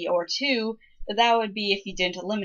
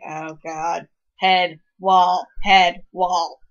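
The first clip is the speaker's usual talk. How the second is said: exasperated groan; 6 dB louder, much slower than usual. Pretend. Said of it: "keeping me somewhat from going".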